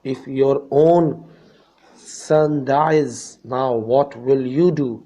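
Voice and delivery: loud, slow, accusing demand; angry father. Acted. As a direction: challenge the doctor in slow anger. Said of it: "said the father angrily". (गुस्से से ललकारता पिता)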